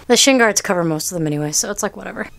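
breathless fast talk; out of breath. Real, not acted. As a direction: speak while out of breath. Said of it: "Sorry, I'm out of breath".

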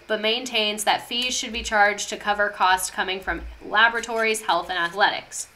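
slightly winded, short of air; out of breath. Real, not acted. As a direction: talk while catching your breath. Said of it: "I'm out of breath".

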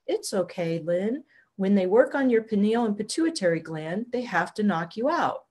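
a hint of a robotic, toneless reassurance; mechanical translator voice. Translator explaining the knockout to Lynn, soft mechanical drone. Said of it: "still speaking in that mechanical voice".

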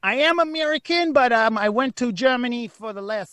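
put-on German-American hybrid accent; muddled German accent. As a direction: explain yourself in an accent that wanders between German and American. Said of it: "I thought you have a German accent".

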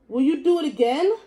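cat voice. Acted. Cat asking the dog why he apologizes. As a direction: ask it like a curious cat.

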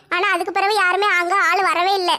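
speaking through tears, voice breaking; crying. Acted. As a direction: let the sob catch as the memory returns. Woman recalling kidnapping fear.

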